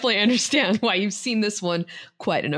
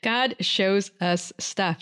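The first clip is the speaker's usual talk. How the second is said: mock announcement; much slower than usual. Co-host echoes title as mock announcement.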